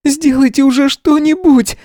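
very high desperate cry; voice breaking girl. A narrator's reading. Red-haired girl yells at adults in panic. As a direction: plead in a cracking voice. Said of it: "срывающимся голосом".

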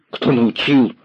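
put-on high boy's voice, sharp and cross; angry boy. A narrator's reading. Boy snapping back at the commissar. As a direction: throw the question back angrily. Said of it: "сердито повторил мальчик".

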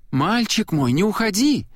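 a high, desperate mother's cry; crying out after him. A narrator's reading. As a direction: call after your leaving son. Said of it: "крикнула ему вслед". (мать кричит вслед сыну, высоко)

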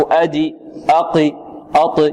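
أدي، أقي، أط released with a short "i" on the end; wrong qalqala towards kasra. Shown as a demonstration. Teacher showing the mistake, qalqala leaning into "i". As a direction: tilt the final bounce into an "i". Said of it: "تميل من ال".

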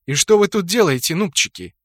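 a touch of steel toward the noobs; steely voice. Acted. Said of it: "её стальной голос". (стальным голосом)

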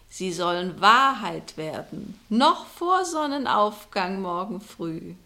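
fortune-teller curses the rich innkeeper, loud and solemn; spell casting. Acted. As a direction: pronounce the spell like an incantation. Woman casts a spell curse.

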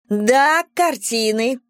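high, squealing outburst; high-pitched indignant squeal; shrill squeal. A narrator's reading. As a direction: squeal it out at the neighbour. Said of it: "провизжала Валерия".

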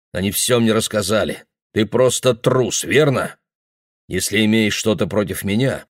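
lightly strained, held-back words; a touch of choked anger, kept in check. Acted. Father confronting the boy, lightly strained. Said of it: "голос звучал напряжённо, сдавленно".

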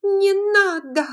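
high, loud yell; furious cry. Acted. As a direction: shout her down in fury. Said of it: "яростно вскричала".

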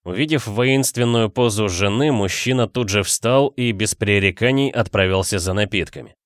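ordinary delivery

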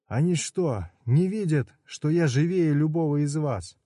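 high indignant cry; indignant outcry. Acted. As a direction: protest that you're alive. Udo protesting indignantly.

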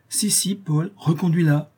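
eager exclamation. A narrator's reading. Claire to Paul, insisting he escort her, eager. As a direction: press him to go, quickly. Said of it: "s'écria Claire".

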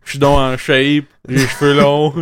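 lame, halting imitation; half-hearted mimicry padded with fillers; Mathieu. Improvising a poor imitation of co-host, halting delivery. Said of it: "le plus plate de cette imitation poche".

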